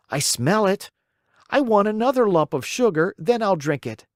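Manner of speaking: put-on high, petulant puppet child refusing; a spoiled boy haggling over medicine; stubborn puppet boy. A narrator's reading. Pinocchio voiced in story.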